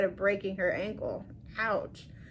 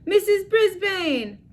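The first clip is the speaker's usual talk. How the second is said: slow, higher excited shout; 9 semitones higher, 4 dB louder, slower than usual. A narrator's reading. Small Paul shouting the teacher's name, excited. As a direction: call the name out across the class. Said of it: "Small Paul shouted".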